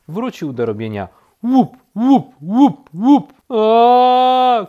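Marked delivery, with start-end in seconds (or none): 1.4-3.3 loud, high knocking noise; imitated pecking, high and forceful; woodpecker knocking. A narrator's reading. 3.5-4.7 loud, high, drawn-out scream; long high yell; exasperated scream. A narrator's reading. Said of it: "krzyknął królik".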